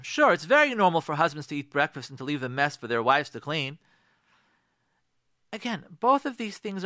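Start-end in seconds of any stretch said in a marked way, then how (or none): 0.0-3.8 mock agreement with heavy sarcastic emphasis; sarcastic "sure", leaning on the key words; sarcasm. Shown as a demonstration. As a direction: agree as if it were obvious, meaning the opposite. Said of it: "Or sarcasm".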